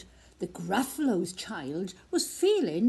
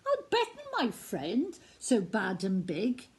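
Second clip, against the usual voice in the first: mouse's voice. Acted. Mouse speaks.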